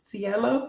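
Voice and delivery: very high-pitched voice, at the very highest pitch. Retelling asking a woman her name, imitating Cielo's very high voice. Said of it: "like in like the highest pitched voice".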